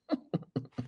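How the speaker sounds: very quiet little laugh; soft chuckle. Real, not acted. Amused by viewers naming British-accent videos, quiet chuckling. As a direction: chuckle under your breath.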